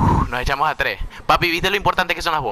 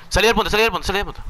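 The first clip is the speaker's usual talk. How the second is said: alarmed high-pitched call to leave the zone; urgent shout; 8 semitones higher, much faster than usual. Real, not acted. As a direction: yell at your teammate to get out. Orders teammate out of danger.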